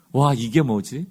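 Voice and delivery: a touch of marvelling, drawn-out wow; awed wonder. Acted. Preacher voicing Israel's exclamation over manna, mild wonder. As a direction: wonder aloud, mildly amazed, question lifting at the end. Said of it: "만나는 감탄의 언어입니다".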